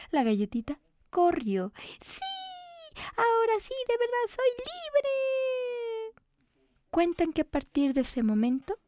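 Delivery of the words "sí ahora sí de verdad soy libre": high, slow, crying with joy; high cookie voice, weeping with relief; tearful relief. Acted. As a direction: sob out your freedom.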